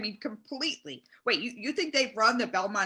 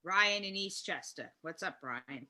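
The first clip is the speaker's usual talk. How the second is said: Mike Francesa; 5 semitones lower, 8 dB quieter than usual. Acted. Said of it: "Mike Francesa".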